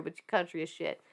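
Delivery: a light Southern country twang. Real, not acted. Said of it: "She said with a twang".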